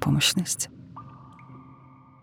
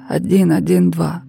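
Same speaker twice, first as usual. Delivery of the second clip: slowly repeating. A narrator's reading. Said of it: "медленно повторила Кира".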